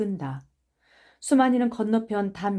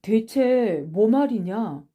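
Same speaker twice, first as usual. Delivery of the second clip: slow, drawn-out questioning; defiant denial; much slower than usual. Acted. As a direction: stretch out the question as if baffled. Cornered boy denies the accusation.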